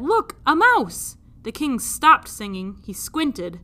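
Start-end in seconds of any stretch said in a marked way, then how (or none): 0.0-1.2 high, loud and slow; excited. Acted. Princess showing her father the mouse, excited. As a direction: point it out eagerly. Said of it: "she said".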